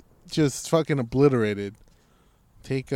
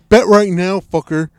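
loud, pushy yell; aggressive shout; 4 semitones higher, 13 dB louder than usual. Retold or imitated. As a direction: bark the bet like a threat. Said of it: "Wow, that's aggressive".

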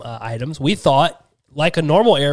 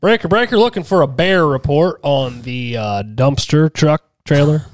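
CB radio voice; 3 dB louder than usual. Pretend. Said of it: "I'm acting like I know".

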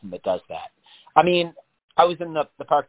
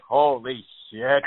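slow stunned awe; much slower than usual. Retold or imitated.

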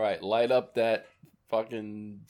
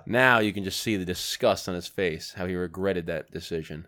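sports-style commentator, slightly lower; mock commentary; 5 semitones lower than usual. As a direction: narrate like a play-by-play. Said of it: "Now, commentary".

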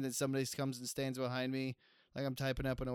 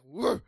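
short rising woof, louder; dog bark; 3 semitones higher, 8 dB louder than usual. Retold or imitated. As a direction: imitate a corgi's quick woof. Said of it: "they'll just be like".

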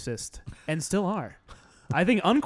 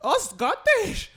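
much higher, slow, hammed-up wail; laughing mock cry; slower than usual. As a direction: stretch out "Oh, Scottish!" in a silly wail.

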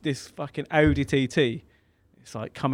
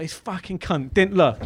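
retold fuming outburst, higher and slow; 5 semitones higher than usual. Driver raging after the crash, retold fuming. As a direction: curse the other driver in mock fury. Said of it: "I was fuming. ... raging".

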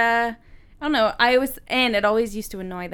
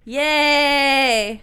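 long, loud, raised cheer; 5 semitones higher, 6 dB louder than usual. Real, not acted. Cheering co-host who has musings, drawn-out cheer. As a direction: draw out a whoop of approval.

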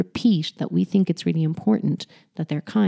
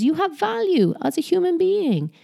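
mock validation; 11 semitones higher than usual. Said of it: "what you're also saying is".

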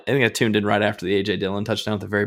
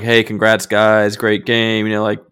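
gracious congratulations; 4 dB louder than usual. Retold or imitated. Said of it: "classy guy".

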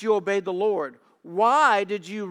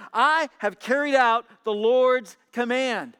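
bright, eager greeting, a bit higher and louder; cheerfully; 5 semitones higher, 6 dB louder than usual. A narrator's reading. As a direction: greet him all cheer and confidence. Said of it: "Saul greeted him cheerfully".

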